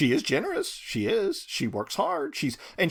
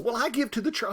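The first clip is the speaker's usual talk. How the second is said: mock smug lady; 9 semitones higher, faster than usual. Mocking the smug woman.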